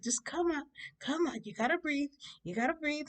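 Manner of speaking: high, urging, comforting lady; coaxing woman. Retold or imitated. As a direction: imitate a woman calming someone hysterical.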